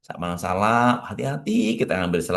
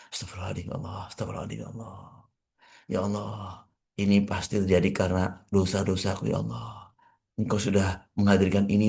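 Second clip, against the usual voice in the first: softer, hushed repentant prayer; murmured prayer; 3 dB quieter, faster than usual. Shown as a demonstration. Preacher demonstrates the anxious believer's istighfar, softly murmured. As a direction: murmur it as if praying alone to God. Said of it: "Perbanyak istighfar".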